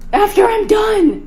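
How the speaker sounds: put-on slow, drawn-out teen attitude; sassy backtalk. Daughter sassing mom about cleaning up, drawn out. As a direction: stretch it out to annoy her.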